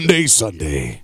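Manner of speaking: slow, low country drawl voice; lightly voiced country singer. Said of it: "That's my country voice".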